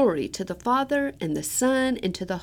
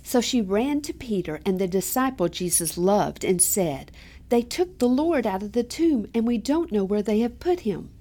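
scripture reading. Acted. Reads the Gospel aloud.

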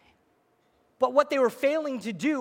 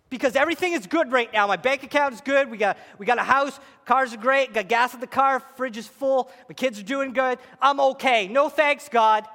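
smug self-assured; 2 semitones higher, 4 dB louder than usual. Retold or imitated. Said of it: "you say".

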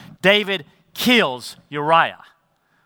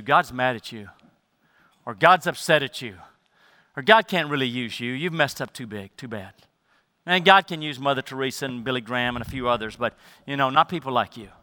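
accusing voice of Satan; 4 semitones lower, 5 dB quieter than usual. Retold or imitated. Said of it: "accusing voice of Satan".

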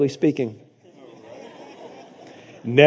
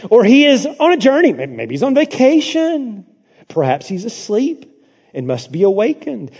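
mocking sarcasm; 5 semitones higher than usual. Elijah mocking the prophets, sarcastic sing-song. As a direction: poke fun at their silent god. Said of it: "He is mocking them".

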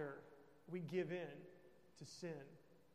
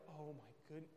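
stunned; 2 semitones lower, 8 dB quieter, faster than usual. Acted. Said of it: "And you're like".

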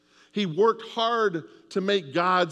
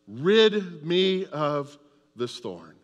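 fading plea; much slower than usual. Acted. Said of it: "He said".

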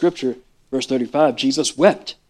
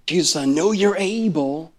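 soft, torn and pleading; a touch of hurt bewilderment; quiet anguished plea; 3 dB quieter than usual. Pretend. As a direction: murmur the doubt to Jesus.

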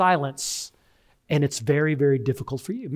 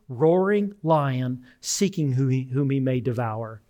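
slow scripture quote; 4 semitones lower, slower than usual. Shown as a demonstration.

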